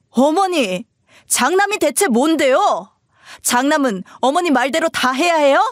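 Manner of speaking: high-pitched, frustrated challenge; defiant son. Acted. Husband questioning what an eldest son owes his mother, defiant. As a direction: push back at mother's demands.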